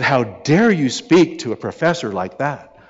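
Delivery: retold indignant scolding, drawn out; slow, emphatic mock reproach; berating. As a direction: imitate scandalised students telling someone off. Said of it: "berated her".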